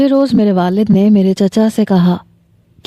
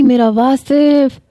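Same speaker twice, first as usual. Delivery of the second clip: drawn-out, higher wail of the name; 5 semitones higher, much slower than usual. Acted. Mother wailing over her dead son, slow high lament. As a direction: stretch each word in grief. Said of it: "وہ چلائے جا رہی تھیں، روئے جا رہی تھیں".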